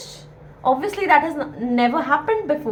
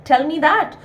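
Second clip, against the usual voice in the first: mildly indignant retort; lightly acted affront, challenging; a teacher voicing an offended objection; 4 dB louder than usual. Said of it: "So he gets offended".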